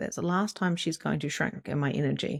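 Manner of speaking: plain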